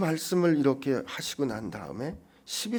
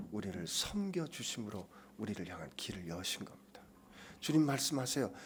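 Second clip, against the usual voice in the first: ordinary delivery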